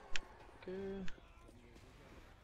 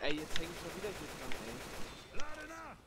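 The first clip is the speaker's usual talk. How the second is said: frustrated whine; 4 semitones higher, 3 dB quieter than usual. Real, not acted. Grabbed by zombie again.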